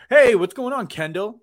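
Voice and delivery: mock jock greeting. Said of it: "just walks up to a girl and was like".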